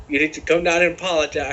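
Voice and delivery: badly faked redneck accent; A J Styles redneck accent. Co-host retelling a wrestler's demand, shaky redneck accent attempt. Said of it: "I can't even do the fucking stupid accent".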